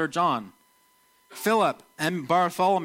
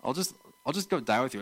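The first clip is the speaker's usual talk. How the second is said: quick, softer, resigned mumble; downer; 3 semitones lower, 5 dB quieter, faster than usual. Retold or imitated. Thomas tells Jesus he will die too, resigned and gloomy. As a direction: shrug it off like a gloomy fatalist. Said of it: "It's almost like a bit of a downer".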